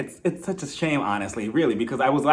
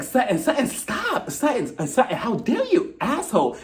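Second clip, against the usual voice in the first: high-pitched mock hysterics; mock-flustered, squeaky outrage; Kyle losing it; 7 semitones higher than usual. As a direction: imitate frantic scolding, pitched way up. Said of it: "Kyle starts losing her shit".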